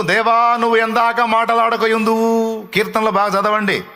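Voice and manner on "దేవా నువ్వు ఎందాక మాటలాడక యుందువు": raised, higher, slow lament; crying out to God. Retold or imitated. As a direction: wail the psalm upward, drawn out. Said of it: "భక్తులు మొత్తుకు".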